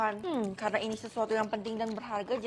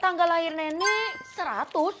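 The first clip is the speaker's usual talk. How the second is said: astonished; 3 semitones higher than usual. Acted. Grandmother's birthdate is a hundred.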